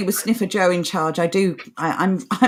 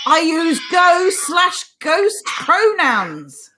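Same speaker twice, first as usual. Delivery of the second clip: mock quote; 7 semitones higher, much slower than usual. Mocking quoted pronoun claim.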